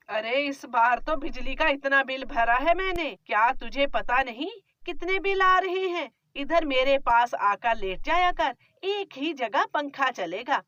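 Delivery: scolding, grumbling mother-in-law; a nagging miser of a mother-in-law; stingy mother-in-law. Acted.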